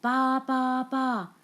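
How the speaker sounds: high, loud bleats; hen baaing. A narrator's reading. The hen tricks the thieves with loud baas. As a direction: bleat like a sheep to fool them. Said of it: "said the fat red hen".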